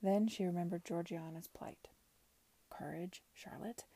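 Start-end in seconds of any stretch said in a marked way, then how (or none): 2.7-3.8 soft, under-the-breath murmur. Acted. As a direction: steel yourself quietly. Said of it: "she murmured under her breath".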